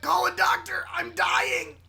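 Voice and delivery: high, loud mock plea; desperate cry for help. Podcaster quoting dying Usagi, desperate shouting. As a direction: yell it as if dying.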